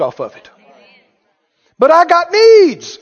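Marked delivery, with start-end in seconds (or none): 1.8-3.0 selfish whine. Retold or imitated. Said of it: "That's unchristian".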